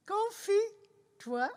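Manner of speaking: talking around a pencil; pen in teeth. Real, not acted. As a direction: pencil clenched in mouth. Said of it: "avec un crayon dans la bouche".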